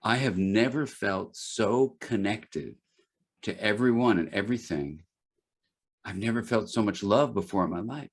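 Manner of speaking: retold slowly, a touch of tears; understated tearful confession. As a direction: let the words come slow, moved. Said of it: "now he gets really slow and tears are forming".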